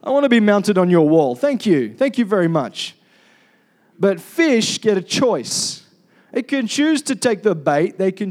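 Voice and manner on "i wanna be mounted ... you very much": a hint of an overeager animal begging to be shot; mock-polite, almost cheerful pleading; eager animal. Preacher voices animal begging hunter, lightly mock-polite. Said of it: "No animal is gonna sit there going".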